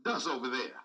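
low, soft royal aside; lightly voiced lazy king; offhand king. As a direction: say it like he can't be bothered. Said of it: "The king just say there's some".

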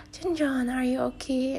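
put-on a light mom voice waking her worried child; gentle mom voice. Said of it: "she's like".

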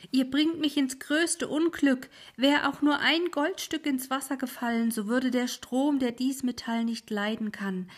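high, loud horrified cry; the ferryman cries out in alarm; alarmed old ferryman. Acted. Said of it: "rief der Alte".

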